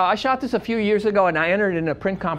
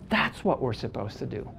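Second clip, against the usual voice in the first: softer, lower echo of the line; repeating the lesson to the room, softly for weight; quiet repeat; 8 semitones lower, 6 dB quieter than usual. Real, not acted. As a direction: let it sink in, pulled back.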